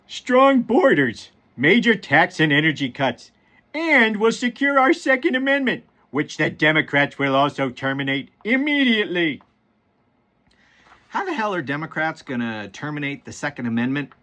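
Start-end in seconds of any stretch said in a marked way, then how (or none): 0.1-9.4 lightly voiced cartoon dad resuming the post; Homer Simpson. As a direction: attempt a cartoon voice, swinging up on emphatic phrases. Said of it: "I'm gonna try my best Homer Simpson".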